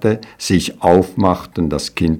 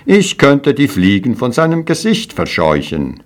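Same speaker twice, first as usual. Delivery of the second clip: proud; 6 semitones higher than usual. Acted. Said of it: "rief voller Stolz".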